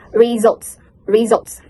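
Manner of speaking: "results" as ree-ZULTS, voiced Z; model pronunciation. Shown as a demonstration. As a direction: demonstrate "results" for repeating. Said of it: "Repeat after me".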